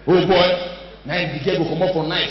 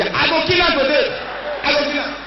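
fake threat through laughter; 9 semitones higher, faster than usual. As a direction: shout it while cracking up. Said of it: "dey ad lib".

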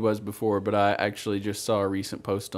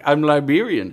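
quoted Vine reply; 4 semitones higher, 9 dB louder than usual. Retold or imitated. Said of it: "They're like".

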